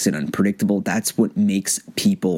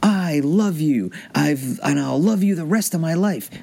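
spontaneous second take; 8 semitones higher than usual. Shown as a demonstration. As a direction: say it fresh on the out-breath, higher. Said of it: "Okay, take two".

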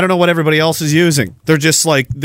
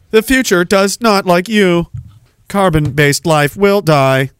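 mock robot; 2 semitones lower, slower than usual. Smart speaker threatening humans, slow robotic voice. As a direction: deliver it cold and mechanical like a robot.

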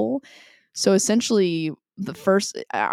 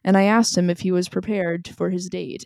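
dry deadpan Nathan impression; flat and serious, no emotion; monotone voice. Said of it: "His monotone voice".

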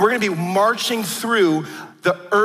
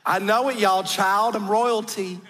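lightly imitated Southern grandmother; Southern belle accent. Preacher reprising grandmother's royalty claim, Southern belle accent. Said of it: "I'm gonna try to do her accent".

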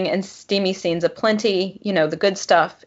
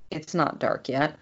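slow, soft snarky retort; dry, lazy comeback; 2 semitones lower, 6 dB quieter, slower than usual. Acted. Will's snarky reply.

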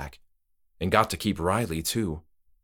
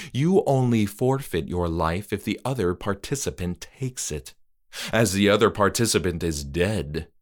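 calm host. Acted. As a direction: patiently correct her. Trick-or-treater explains.

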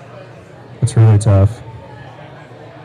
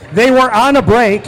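mock shout; 6 semitones higher than usual. Quoting Friends, Ross's famous line.

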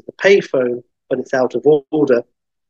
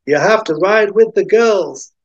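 higher, louder hick character voice; high-pitched country hick; 7 semitones higher, 4 dB louder than usual. Acted. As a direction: put on a rustic hick voice. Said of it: "the hick is like".

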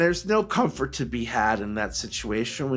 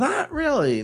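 jokey high denial; 3 dB louder than usual. Real, not acted. Joking denial with sudden high pitch.

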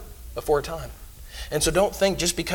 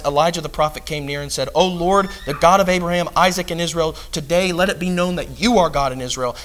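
louder, declaiming Bible reading; scripture reading; 4 dB louder than usual. Acted. Preacher reading Elijah's prayer aloud to the church, declaiming. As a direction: proclaim the verses to the congregation.

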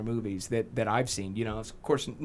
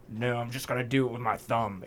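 put-on awful Scottish accent; 3 semitones lower, 5 dB quieter than usual. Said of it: "I have a really awful accent".

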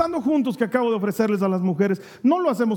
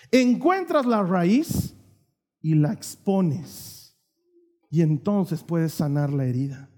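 slow, emphatic; 4 semitones lower, slower than usual. Acted. Preaching punchline.

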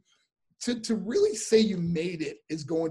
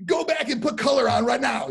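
retold command; 8 semitones higher, 6 dB louder than usual. Booker ordering wrestler back to makeup.

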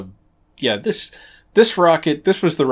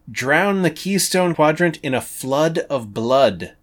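slow, dramatic read-out of a threat; quoted line; 5 semitones higher, 5 dB louder, slower than usual. Acted.

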